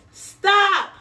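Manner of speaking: high loud stop; yelling. Acted. Man yells at the gingerbread boy in the garden. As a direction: yell after him. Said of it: "yelled the man".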